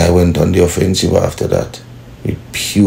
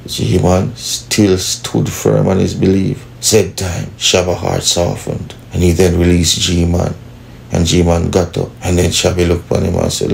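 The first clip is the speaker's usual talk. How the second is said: story narration. A narrator's reading. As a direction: tell it slowly like a dramatic tale.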